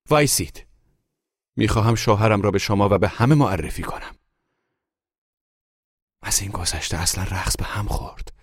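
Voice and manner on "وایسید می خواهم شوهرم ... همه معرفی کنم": high, loud cry to halt everyone; shouted command. A narrator's reading. Wife stopping the party guests, shouting high and loud. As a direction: shout it out to the whole room. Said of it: "فریاد محلقا خانم مرا سر جای خودم".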